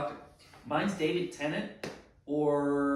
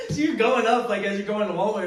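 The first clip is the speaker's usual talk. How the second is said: laughing; 7 semitones higher, 12 dB louder than usual. Real, not acted. Laughing at odd store location.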